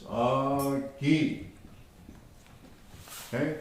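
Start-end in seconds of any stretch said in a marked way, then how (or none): 0.0-1.4 "Agi" softly, with a long drawn-out first vowel; slow demonstration. Shown as a demonstration. Teacher showing learners how to say it, "Agi" slow and drawn out. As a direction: stretch the "A" of "Agi", then land on "gi". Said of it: "you say it like this".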